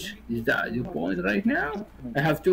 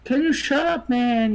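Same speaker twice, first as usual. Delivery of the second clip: high, sharp demand to stop; exasperated snap; 6 semitones higher than usual. Real, not acted. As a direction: cut him off, voice jumps up high. Heated argument, telling him off.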